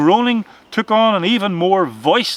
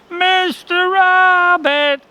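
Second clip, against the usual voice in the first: high, drawn-out eerie call; the wind calls his name like a ghost; ghostly wind voice; 13 semitones higher, 5 dB louder, much slower than usual. A narrator's reading. Storm wind calling the rabbit's name, eerie and drawn out.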